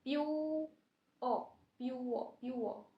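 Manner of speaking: प्योर broken into प्यू and अ; प्योर, प्यू-अ spelled out; slow pure drill. Shown as a demonstration. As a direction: drag प्योर apart, pyu then uh. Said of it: "प्योर को कैसे बोल".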